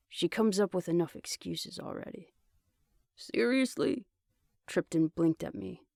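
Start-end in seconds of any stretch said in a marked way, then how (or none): 3.2-4.1 higher, incredulous "Seriously?"; surprised. Acted. Friend stunned by the answer, higher incredulous disbelief. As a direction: jolt up in disbelief. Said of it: "wide-eyed".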